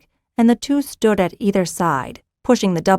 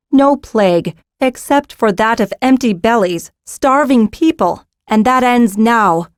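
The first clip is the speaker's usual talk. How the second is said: firm and loud; 4 semitones higher, 5 dB louder than usual. Acted. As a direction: lay down the law. Nera firm decree.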